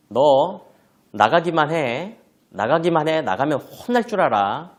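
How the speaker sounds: acted warning, hammered out; threatening scolding. Mother warns child who starts to leave, threatening. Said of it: "처벌이 섞인 메시지로".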